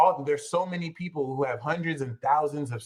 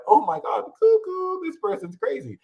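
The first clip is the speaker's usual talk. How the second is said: mocking skeptic; 11 semitones higher than usual. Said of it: "And they're like".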